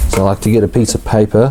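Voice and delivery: talking over rustling paper. Real, not acted. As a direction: speak fast while paper crinkles nearby. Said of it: "Sorry about the rustling".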